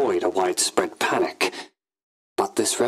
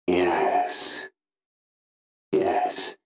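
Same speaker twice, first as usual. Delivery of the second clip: ordinary talk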